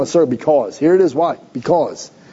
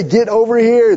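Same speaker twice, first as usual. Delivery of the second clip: put-on parent calling kids; 3 semitones higher than usual. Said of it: "If I say".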